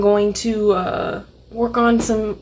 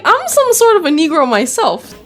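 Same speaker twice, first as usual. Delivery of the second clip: mock actress; 5 semitones higher, 4 dB louder than usual. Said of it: "She was like".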